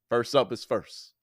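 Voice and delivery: drawn out a little, then cut short; slow first call. Shown as a demonstration. Announcing the first game pick, slightly slowed. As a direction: start the picks list a touch slow. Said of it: "I said first up is first".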